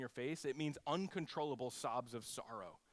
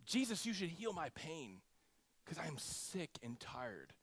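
weary plea; 3 dB quieter than usual. Retold or imitated.

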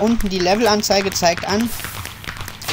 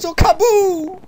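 high-pitched playful kaboom; mock explosion cry; 11 semitones higher, slower than usual. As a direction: go up high on a silly explosion noise. Imitates an explosion.

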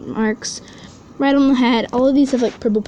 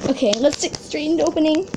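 higher-pitched, eager chatter; high excited voice; 4 semitones higher than usual. Real, not acted. Unboxer hurrying into the package, high excited voice. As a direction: let excitement push the pitch up. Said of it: "my voice is super high".

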